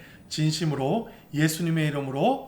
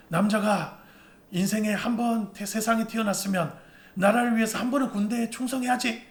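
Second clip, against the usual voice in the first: stern father; 5 semitones higher than usual. Retold or imitated. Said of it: "저희 아버지는 항상 저한테 이렇게 말씀하셨거든요".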